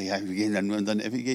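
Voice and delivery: rattled off fast, imitating her brushing it aside; quick offhand repeat. Woman repeats her church's name quickly and offhand. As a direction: hurry through "F E G" casually. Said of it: "wieso sagst du das so komisch".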